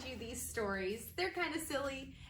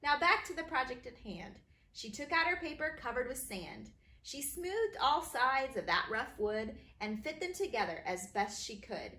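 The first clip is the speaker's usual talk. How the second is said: bouncy, sing-song rhyme reading; rhyming read-aloud; 2 semitones higher than usual. A narrator's reading. Author reading her rhyming book to kids, bouncy.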